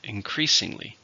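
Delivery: "Increasingly" stressed on "creas"; second-syllable stress. Shown as a demonstration. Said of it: "stress in the second".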